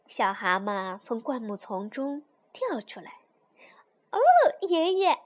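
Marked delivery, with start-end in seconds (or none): 4.1-5.2 high, loud little toad; excited cry. A narrator's reading. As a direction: call out to Grandpa in admiration. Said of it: "他叫道".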